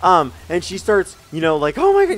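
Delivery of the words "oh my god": high, loud imitation of panic; hammed-up terrified squeal; mock freaking out. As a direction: imitate someone shrieking as they freak out. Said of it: "you know, freaking out".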